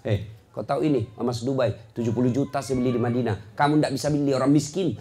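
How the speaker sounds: low, quiet haughty boasting; acted arrogance. Show-off flaunting Dubai gold at a neighbour, low and haughty. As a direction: brag down at a poorer person, pitch dropped. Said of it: "Ah, kau sombong".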